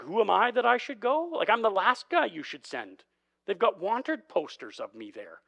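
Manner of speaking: a nervous Moses begging off; a touch of frantic Moses; Moses protesting. Retold or imitated. Moses voiced anxiously.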